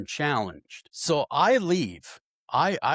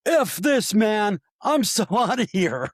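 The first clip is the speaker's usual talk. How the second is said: much higher, louder bail-out line; fleeing friend; 9 semitones higher, 4 dB louder than usual. Retold or imitated. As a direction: squeal it out as you run for the door. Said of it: "He says".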